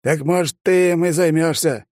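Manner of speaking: put-on a touch of a chuckling old man; smirking old man. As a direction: toss it off with a smirk. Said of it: "хмыкнул старик".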